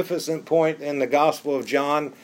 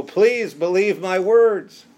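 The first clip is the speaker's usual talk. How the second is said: slow, louder plea; pleading; 4 semitones higher, 4 dB louder, slower than usual. Retold or imitated. Jesus crying out to the crowd, slow earnest plea. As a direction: beg them slowly to believe. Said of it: "He's pleading with people".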